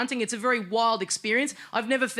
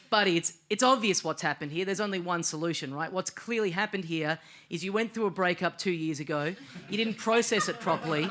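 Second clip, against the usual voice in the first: calm inner voice; 4 semitones lower, 3 dB quieter than usual. Retold or imitated. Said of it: "the voice in my brain logs on again and it goes".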